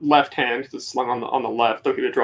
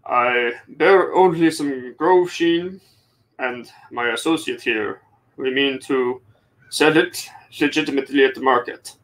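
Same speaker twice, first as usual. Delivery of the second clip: formal traveller in character. Acted. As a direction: answer the guard with careful formality. Player answers guard in character.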